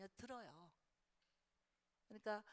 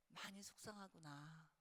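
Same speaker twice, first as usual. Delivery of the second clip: tender comfort; 3 dB quieter than usual. Shown as a demonstration. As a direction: comfort a crying teen gently. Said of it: "그렇게만 해주고". (부드럽게 달래는 말투)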